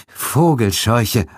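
slow, stunned single word; dazed whisper of dread. Acted. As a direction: let it drop out of shock. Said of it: "shocked survivor, single word". (langsam, wie unter Schock)

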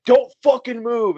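retold stern order. Friend breaking up a fight, retold stern order. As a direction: imitate a friend freezing the brawlers.

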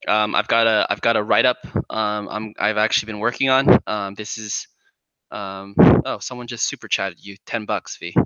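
audible breaths between words; heavy nose breathing. Real, not acted. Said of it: "Who's breathing into the mic?".

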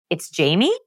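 JAMIE lifted at the end like a question; question inflection. Retold or imitated. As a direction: state the name as if asking, rising on JAMIE. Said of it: "That is called the question inflection".

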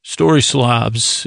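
drawn out story slobs; slow soft story slobs. Shown as a demonstration. Renaming the slams for sleep, slow and soft. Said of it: "So we call 'em".

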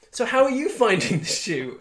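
high, bright interviewer voice; mock chirpy reporter. News crew asking her on set, in a high chirpy voice. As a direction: play the sunny news reporter. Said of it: "be like".

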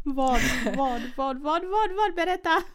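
laughing, rising rapid-fire questions; eager laughing demand. Real, not acted. Listener begs friend to finish the story, laughing eagerly. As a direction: urge her to tell, giggling.

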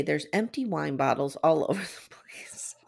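hushed, giggly whisper; a conspiratorial whisper about the wine bottles; laughing whisper. Real, not acted.

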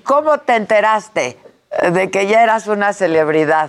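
muffled behind a mask; words dampened by a mask; through a face mask. Real, not acted. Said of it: "No puedo hablar con el cubrebocas". (voz apagada por el cubrebocas)

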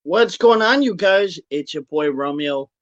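ordinary delivery

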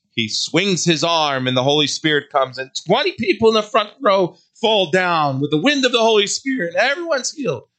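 mock the faith-healer show. Preacher mocks the false prophet's healing show, scornful.

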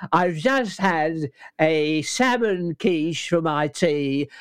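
Bruce Forsyth voice. Shown as a demonstration. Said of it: "he would have a conversation".

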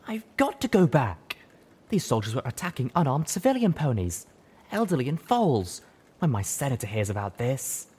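protest, frightened; alarmed wounded mare. Acted.

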